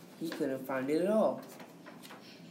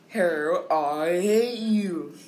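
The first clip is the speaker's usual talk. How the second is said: loud slow hate; 5 dB louder, much slower than usual. Acted. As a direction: bellow it slowly at the hair. Man shouts at hair.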